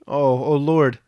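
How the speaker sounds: a sobbing cry to God; a touch of tearful sobbing. A narrator's reading. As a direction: break into a sob on Lord. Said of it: "And again she began to sob".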